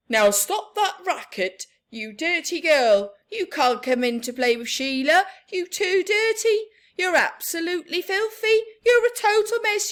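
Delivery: loud, fast stern scold; father scolding a dirty girl. Acted. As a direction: order the racket to stop.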